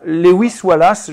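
"random" said in English with a light French accent; a French speaker saying the English word "random", a bit self-conscious. Real, not acted. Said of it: "j'espère que tu m'excuseras de mon accent".

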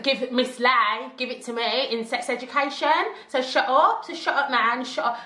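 put-on stroppy girl shouting down her mum; teen attitude. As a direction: snap back at mum with attitude. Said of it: "Caught attitude".

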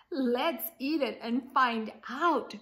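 eager cry. Acted. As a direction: call out keen to dig in. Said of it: "cried Alvin".

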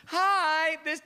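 high, broken-up fragments of a greeting; voicemail cutting out. Acted. Her voicemail greeting heard by caller, cutting out. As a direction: chop the greeting into stray bursts. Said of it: "it kept cutting out in the message".

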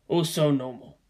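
soft whispered aside. Acted. Shaken traveller whispering on the plane. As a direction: breathe it out barely voiced. Drugged dreamy plane talk.

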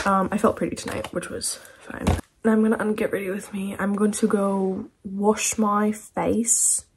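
put-on British accent. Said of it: "stop talking in this British accent".

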